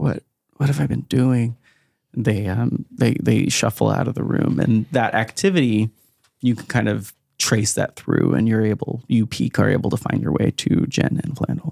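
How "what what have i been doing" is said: mumbled, muttered under the breath. Voicing people who silently turn away and leave: muttering. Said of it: "you hear them kinda mutter".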